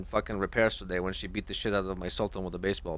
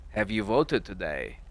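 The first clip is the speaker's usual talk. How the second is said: slow, drawn-out mock nag; mocking imitation; 2 semitones lower, slower than usual. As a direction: parody the question, dragging it slowly. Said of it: "why you have to mock me".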